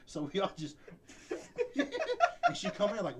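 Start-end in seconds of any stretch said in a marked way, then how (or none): 1.8-3.2 much higher, louder, slow through laughter; words squeezed out while cracking up; giggling while telling the story; laughing. Real, not acted.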